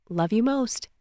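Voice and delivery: gentler, understated affectionate goodbye; soft fond reply. Acted. Answering a loved one's goodbye on the phone, softly fond. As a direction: answer fondly, keeping it soft.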